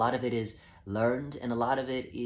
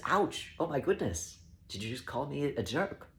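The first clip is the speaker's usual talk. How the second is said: mock offended shock; 3 semitones higher than usual. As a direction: play stung by an insult. Acts out hurt reaction to insult.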